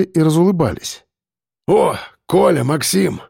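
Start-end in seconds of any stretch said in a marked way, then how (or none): 1.7-3.2 glad exclamation. A narrator's reading. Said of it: "воскликнул Михалыч".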